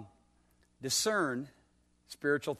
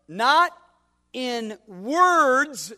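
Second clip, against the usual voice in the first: "not" and "in words" hit louder and higher, each word set apart; stress on words; 6 semitones higher, 8 dB louder, much slower than usual. Shown as a demonstration. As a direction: lean hard on "not in words" with pauses between. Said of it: "notice the emphasis on words".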